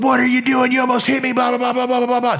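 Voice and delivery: high-pitched, ranting imitation of an angry driver; mock yelling. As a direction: mimic her tirade, running off into blahs. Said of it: "Starts yelling at me".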